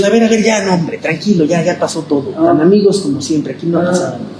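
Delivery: a hint of a chummy god; laughing mock god. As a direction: soothe a friend you just wronged. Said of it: "dice Dios".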